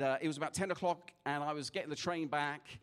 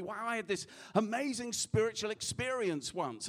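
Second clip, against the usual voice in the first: higher-pitched, wowed retold quote; excited retelling; 5 semitones higher than usual. Drunk train passenger tells the preacher his experience, excited. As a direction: imitate an eager man sharing his big story.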